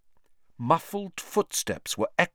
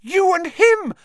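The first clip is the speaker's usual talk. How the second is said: furious shout; 10 dB louder than usual. Acted. Hermione accusing, shout heard.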